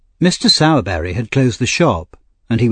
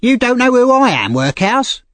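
put-on high, louder, haughty boy; bullying older boy; 14 semitones higher, 4 dB louder than usual. A narrator's reading. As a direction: sneer at the newcomer as the bully.

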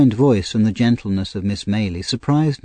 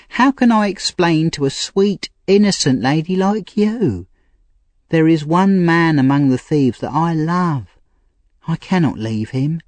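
put-on higher, pleading young woman; Nancy, street girl; 6 semitones higher than usual. A narrator's reading. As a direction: voice a desperate young thief girl. Nancy voiced.

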